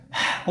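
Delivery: audible exhaled sigh, acted out; weary sigh. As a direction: let out a worn-out "ha". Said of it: "한숨만 쉬다 올 때도". (지친 한숨 흉내)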